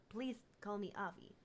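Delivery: put-on thick Russian accent, falling at the end. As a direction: introduce yourself with a Russian accent. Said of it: "drop the Russian accent".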